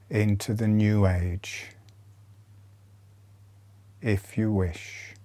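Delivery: soothing body-awareness cues; guided meditation. Acted. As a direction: talk them through each breath, unhurried. Leads a softer breathing meditation.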